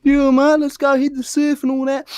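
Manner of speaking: high, loud Aussie surfer dude; Australian surfer accent. Shown as a demonstration. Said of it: "You wanna do an Australian for us".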